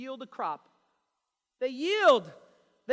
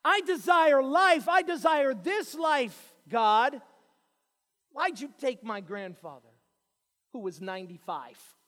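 mock demand; 2 semitones higher, 10 dB louder than usual. Preacher mimicking a prideful believer, loud mock demand. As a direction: ham up a selfish believer.

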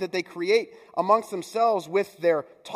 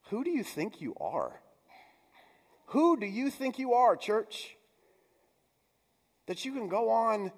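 rebuking; 6 semitones higher than usual. Retold or imitated. Voicing Paul's rebuke of church.

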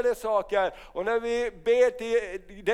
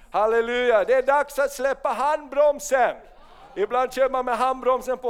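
loud, rousing preacher's call; fiery revival sermon; preaching at full force; 3 semitones higher, 4 dB louder than usual. Real, not acted. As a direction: stir the congregation up.

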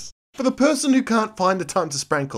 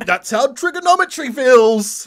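quoted teacher voice; 11 semitones higher, 13 dB louder than usual. Retold or imitated. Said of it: "And he said".

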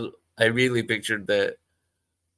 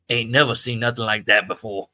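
lightly voiced old country man; a hint of a drawling old Southern lawman; folksy old small-town man; old Joe voice; 7 dB louder than usual. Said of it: "this is what an old Joe sounds like to me".

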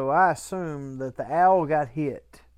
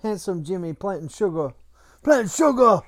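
imitating a child; 5 semitones higher, 8 dB louder than usual. Imitating daughter's shouted words.

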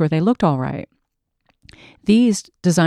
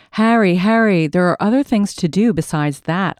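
prim. Acted. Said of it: "I answered primly".

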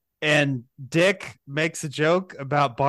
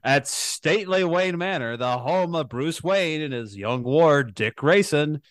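Batman sixty-six narrator. Acted. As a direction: announce it like the old Batman show. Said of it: "That's better".

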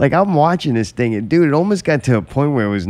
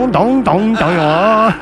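mock Asian accent; 8 semitones higher, 4 dB louder, slower than usual. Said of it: "an offensive Asian accent".

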